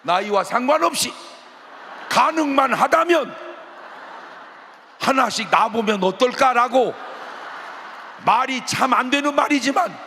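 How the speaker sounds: loud, high preaching; fervent preaching. Acted. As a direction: exhort the congregation at full voice. Preaching at full force.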